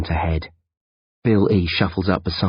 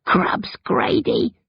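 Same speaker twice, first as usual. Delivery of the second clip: hoarse giggle; 14 semitones higher, much slower than usual. Acted. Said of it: "Bill E giggles hoarsely".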